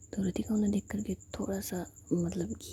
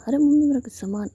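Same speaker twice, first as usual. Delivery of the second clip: sharp, louder angry call out to mom, higher; 6 semitones higher, 8 dB louder than usual. Retold or imitated. Sammy calling angrily to her mother. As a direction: snap at mom from the other room. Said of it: "सैमी की एक गुस्से वाली आवाज़ आती है".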